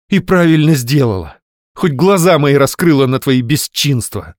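defiant shout. Acted. Wife shouting back at husband.

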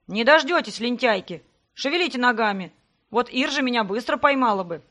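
loud, cheeky taunt; teasing shout. Acted. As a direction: brother mocking the lazy girls chasing him. Brother teasing girls while running.

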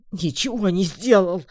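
loud, high yelp of denial; desperate protest. A narrator's reading. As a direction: cry it out under the blows. Beaten creature denies under blows.

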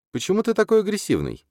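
put-on high, light calm girl's voice; calm girl questioning an aggressive classmate. A narrator's reading. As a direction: ask gently in a young woman's voice. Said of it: "спокойным голосом спрашивает девушка".

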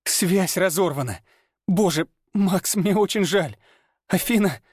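high, anguished apology; voiced in panic and grief; distressed woman. A narrator's reading. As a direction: Lana crying out in despair.

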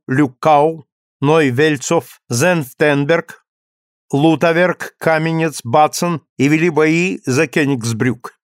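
grand, measured radio bulletin; booming solemn state announcer. Acted. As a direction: read it like a wartime state broadcast. Wartime Sovinformburo bulletin read.

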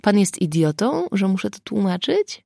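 a hint of a shout at a fool; mild boom. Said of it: "huknął Dunin".

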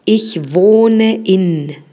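teacher giving the answer slowly. Shown as a demonstration. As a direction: model Ich wohne in slowly. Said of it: "trata de decirlo".

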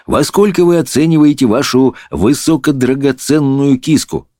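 high, sugary flattery; sweet voice. A narrator's reading. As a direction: fawn over the princess. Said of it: "обратился он сладким голосом к принцессе".

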